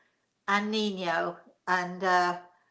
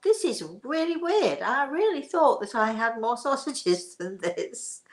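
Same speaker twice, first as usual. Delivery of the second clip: a touch of puzzled surprise, starting high; half-laughing puzzled thought; mock bafflement; 4 semitones higher than usual. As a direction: retell your own confusion lightly. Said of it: "I thought".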